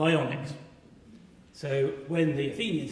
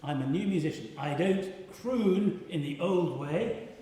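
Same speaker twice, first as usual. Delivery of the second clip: defiant; 2 semitones higher than usual. Acted. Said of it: "he is very defiant".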